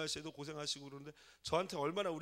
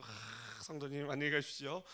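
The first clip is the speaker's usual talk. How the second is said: angelic smile; 5 semitones lower than usual. Retold or imitated. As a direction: greet them like an angel, gently. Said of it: "천사 같은 미소로".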